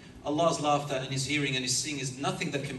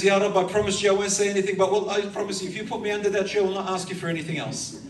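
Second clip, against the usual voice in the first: eager pleading; 5 semitones higher, 4 dB louder, faster than usual. Acted. Servant begging for another tree.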